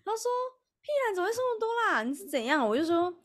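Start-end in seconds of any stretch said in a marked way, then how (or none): 0.8-2.7 much higher and very fast teasing retort; imitating a friend's rapid, raised disbelief; blunt disbelief. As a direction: rattle it off like a friend who won't believe it. Friend bluntly questions her.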